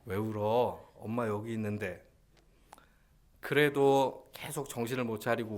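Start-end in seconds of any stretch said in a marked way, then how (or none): 0.0-2.0 acted motherly reassurance; tender mother. Preacher as mother reassuring her crying baby, tender. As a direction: comfort a crying child lovingly. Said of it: "제가 너무 다정하지 않았습니까".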